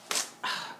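soft breath out; regretful sigh. Real, not acted. Fan who blew her chance, regretful sigh. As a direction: sigh softly in defeat.

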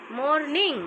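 "মর্নিং" in two parts, মর, then নিং rising; split into syllables. Shown as a demonstration. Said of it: "syllable ভাগ করে যদি করো".

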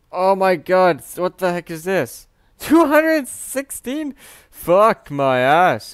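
loud, high stunned outburst; gobsmacked at the huge number; shocked yell. Real, not acted. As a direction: drag out the disbelief slowly and loud. Shocked at opponent's stats.

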